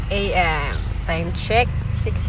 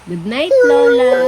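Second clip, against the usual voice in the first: sing-song prompt; 13 semitones higher, 10 dB louder than usual. Real, not acted. Mother coaxing her toddler to say goodnight, high sing-song.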